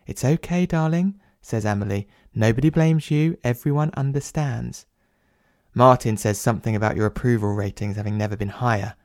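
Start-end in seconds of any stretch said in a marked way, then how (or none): 0.1-4.9 lightly raised, gentle wife's voice; soothing wife voice. Acted. Wife Amelie soothing her husband, lightly voiced gentle coaxing.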